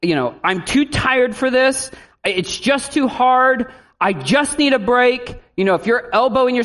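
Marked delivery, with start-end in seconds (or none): 0.4-5.3 mock tired parent. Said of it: "if you are saying".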